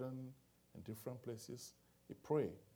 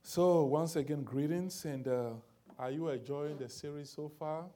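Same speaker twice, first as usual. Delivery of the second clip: booming, lifted greeting to the room; loud greeting; 4 semitones higher, 9 dB louder than usual. Acted. Pastor greeting the congregation, booming and lifted. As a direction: call out the welcome to the whole hall.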